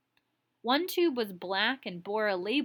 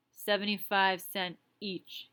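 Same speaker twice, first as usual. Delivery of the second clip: slow gruff Tiny. Acted.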